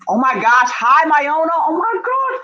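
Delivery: high, loud squealing greeting; delighted high-pitched hi; excited squeal. Real, not acted.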